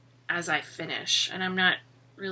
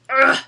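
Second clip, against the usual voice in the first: short "ugh" of effort; effortful grunt; 6 semitones higher, 12 dB louder than usual. Real, not acted. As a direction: grunt while tugging something. Stretching out the knitted snood.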